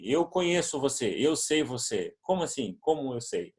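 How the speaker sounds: bewildered foreigner pondering the two verbs; confused learner. Retold or imitated. Pastor Simon questions his translator, puzzled. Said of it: "ele perguntava assim".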